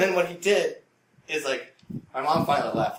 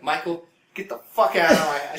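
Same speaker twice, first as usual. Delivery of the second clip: loud, raised-pitch scolding; imitated angry mom; 5 semitones higher, 9 dB louder than usual. Mom throwing out the houseguest, loud imitated anger. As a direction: order him out in mock maternal fury. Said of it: "she's like".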